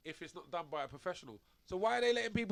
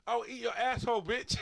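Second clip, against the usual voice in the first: imitating Tyson; 5 semitones higher, 5 dB louder than usual. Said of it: "this is what Tyson says to him".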